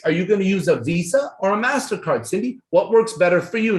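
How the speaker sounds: a light smiling offer of Visa or MasterCard; smiling easy close. Shown as a demonstration. Coach demonstrates the alternative close to Cindy, smiling and relaxed. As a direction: nod and smile as if either choice is fine. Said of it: "Now look at me. See me nodding my head, shrugging my shoulders, smiling".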